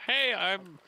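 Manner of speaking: cheery cover voice. Acted. Player voices cheery fake cover story.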